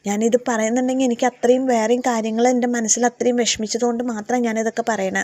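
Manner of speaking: mock anger, blaming her; imitated resentful rant; retold angry outburst. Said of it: "ദേഷ്യപ്പെടുകയാണ്".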